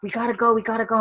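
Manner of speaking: lightly acted hurry-up plea; retold urging. Companions pressing Claire to leave, retold urgency.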